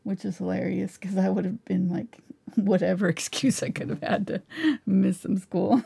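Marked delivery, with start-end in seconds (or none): 2.6-5.9 amused confession broken up by laughter; laughing while talking. Real, not acted. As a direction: chuckle through the words. Laughing at own school-skipping confession.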